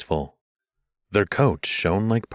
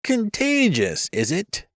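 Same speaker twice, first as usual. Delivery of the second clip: frightened; 13 semitones higher, slower than usual. Acted. Shirapont frightened.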